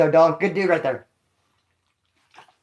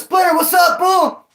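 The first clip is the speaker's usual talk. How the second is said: imitating Madman's greeting; 8 semitones higher, slower than usual. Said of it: "He goes".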